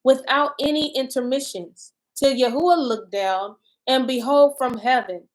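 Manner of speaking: measured, deliberate Bible reading; solemnly paced reading; scripture reading. Acted. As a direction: read the lament aloud with pauses between phrases. Reads scripture aloud.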